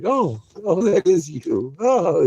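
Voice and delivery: high, loud mock puppy delight; excited puppy voice. Owner voicing her puppy's delight, high excited mock voice. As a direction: voice the puppy realising it's you, thrilled. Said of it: "he's like".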